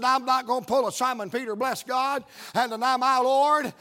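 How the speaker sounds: emphatic, defiant declaration; building into bold resolve; Holy Ghost boldness. Retold or imitated. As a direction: preach it with sudden courage. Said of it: "a case of Holy Ghost boldness come on me".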